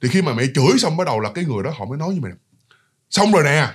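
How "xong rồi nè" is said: quick and decisive. Retold or imitated. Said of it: "trả lời rất là nhanh mà rất là dứt khoát".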